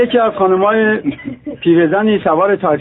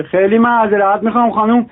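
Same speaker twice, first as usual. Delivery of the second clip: a touch of a prim Isfahani lady, higher; polite lady; 5 semitones higher than usual. Acted. Lady driver apologising to the policeman, lightly prim and polite.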